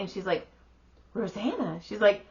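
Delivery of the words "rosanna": ROSANNA echoed with a swooping rise and fall; retold surprised echo of ROSANNA, drawn into a question; surprised recognition. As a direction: repeat ROSANNA as if you know her, pitch leaping mid-word. Friend echoes name in recognition.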